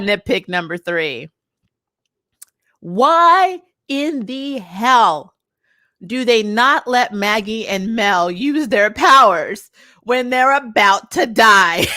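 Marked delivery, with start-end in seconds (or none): 2.8-11.9 slow, drawn-out incredulous demand; exasperated. Real, not acted. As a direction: space out every word in exasperation. Exasperated rant about plot.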